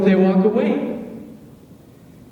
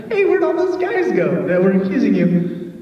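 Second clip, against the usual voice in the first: light teasing paraphrase, a bit higher; playful Jesus; 4 semitones higher, 3 dB louder than usual. Retold or imitated. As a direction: tease her gently, lightly voiced.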